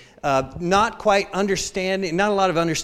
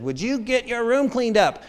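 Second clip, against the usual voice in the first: nagging parent; 6 semitones higher than usual. Retold or imitated. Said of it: "on my parents when they said".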